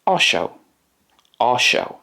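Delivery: careful Polish "osioł"; Polish word modelled. Shown as a demonstration. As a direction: repeat "osioł" clearly. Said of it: "and in Polish".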